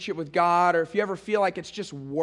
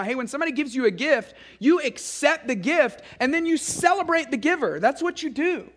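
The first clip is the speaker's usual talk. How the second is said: put-on higher, sing-song voice as if to little kids; teaching little kids; 6 semitones higher than usual. Shown as a demonstration. Parent teaching little kids to accept a gift, higher teaching voice. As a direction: coach a small child through "accept the gift". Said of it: "we're trying to teach them to do that".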